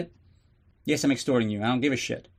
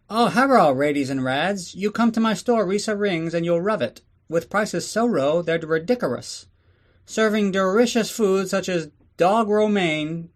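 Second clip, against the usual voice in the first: mock Asian accent ad; 6 semitones higher than usual. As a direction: sell the store like a cartoonish shopkeeper in a stereotyped Asian accent. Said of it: "let's go take a little break for the advertisements".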